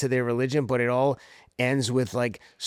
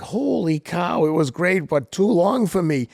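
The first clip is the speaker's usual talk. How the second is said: mock exasperation; 5 semitones higher than usual. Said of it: "I'm like".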